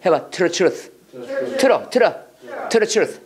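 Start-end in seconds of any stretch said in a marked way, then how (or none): 1.6-2.1 "틀어" with T softened to a tapped r; T read as Korean ㄹ. Shown as a demonstration. Teacher drilling vowel-linked T in "틀어", tapped pronunciation. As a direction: say "틀어" with a quick r-like link. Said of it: "리을로 읽어야 돼".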